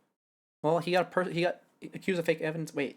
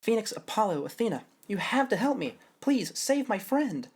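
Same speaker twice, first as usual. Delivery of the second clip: pleading plea; 7 semitones higher, 3 dB louder than usual. Shown as a demonstration. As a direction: beg them, slowing on save my friend. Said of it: "That's not even the right intonation".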